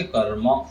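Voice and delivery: कर्म with r joined to m, final "a" sounded; no vowel between r and m in कर्म; correct "kar-ma". Shown as a demonstration. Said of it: "ये शुद्ध उच्चारण होगा".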